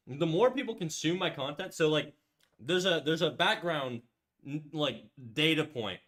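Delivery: talking with a mouth full; chewing a carrot mid-sentence. Real, not acted. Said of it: "talking with my mouth full".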